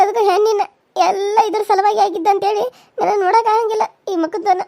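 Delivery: tearful, voice catching between laugh and sob; crying. Acted. Grieving mother tells her friend about her son, tearful. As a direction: grieve for the dead son through tears. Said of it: "ಅಳಬ್ಯಾಡ".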